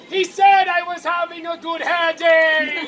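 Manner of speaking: slow, hammed-up plaintive wail; plaintive cry. Brutus defending herself to Cassius, mock-plaintive cry. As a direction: stretch it out as a mock lament. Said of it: "Brutus cries plaintively".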